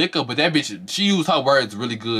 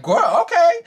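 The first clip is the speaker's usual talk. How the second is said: mock dismissive; 5 dB louder, slower than usual. Mocking a castmate's dismissive reply.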